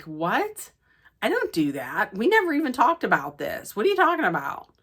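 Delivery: mock-baffled comeback, pitch climbing high by the end; incredulous retort. Recapper voicing his reply to her dumping him, incredulous. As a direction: act out a taken-aback boyfriend's protest.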